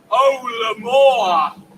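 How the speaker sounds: drawn-out passionate cue. Acted. Poem cue line.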